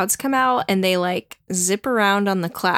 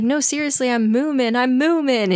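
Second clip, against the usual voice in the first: higher-pitched, mild mock plea; crying plea; 5 semitones higher than usual. Moomin insisting to his dad, mildly pleading. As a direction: imitate a tearful child insisting, lightly. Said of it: "he's, like, crying".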